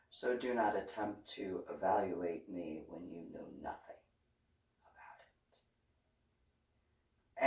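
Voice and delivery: low, soft, firm rebuke; quiet scolding. Retold or imitated. Scolding Coyote for diagnosing her, low and firm. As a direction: put him in his place quietly.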